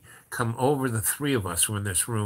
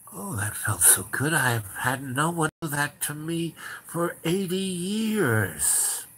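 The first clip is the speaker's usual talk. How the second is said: retold blissful relishing; 6 semitones higher, slower than usual. Retold man relishing the jolt.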